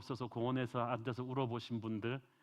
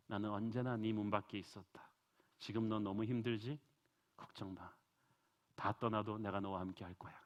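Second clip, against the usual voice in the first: tender voice of God. Acted. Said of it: "그리고 말씀하십니다".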